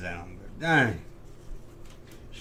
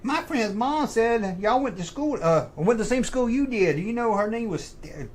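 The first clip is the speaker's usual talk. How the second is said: son relaying news; 9 semitones higher than usual. Retold or imitated. Son telling parent about a friend's mom, high-pitched imitation. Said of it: "he was like".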